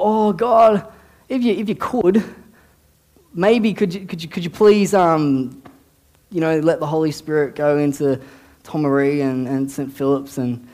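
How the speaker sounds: halting, stumbling timid plea; hesitant mock prayer. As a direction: imitate someone begging God without any confidence. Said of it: "I'm not praying".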